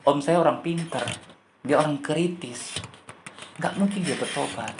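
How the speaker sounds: hurt, questioning, understated; disappointed complaint. Retold or imitated. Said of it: "Dia kecewa, saudara. Dia sedih sama Tuhan".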